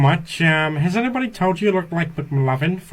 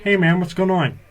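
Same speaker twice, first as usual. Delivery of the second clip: Peter Griffin voice; 2 semitones higher than usual. Acted. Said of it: "Yo, you do voices".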